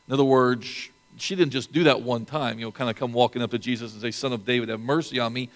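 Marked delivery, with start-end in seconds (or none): 4.1-5.5 flat, offhand plea with no passion; without emotion. Shown as a demonstration. Preacher showing how the woman did not ask, flat and offhand. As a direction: toss the plea off casually, as if it doesn't matter. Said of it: "without emotion or passion as I just said it".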